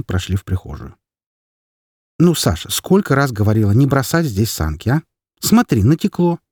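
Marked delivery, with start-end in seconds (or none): 2.2-6.4 scolding mother. Acted. Mother scolds about sled.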